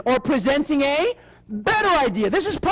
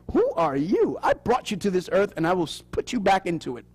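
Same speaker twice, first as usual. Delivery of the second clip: stern mother; 5 semitones lower, 3 dB quieter than usual. Retold or imitated. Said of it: "That's what my mother used to tell me".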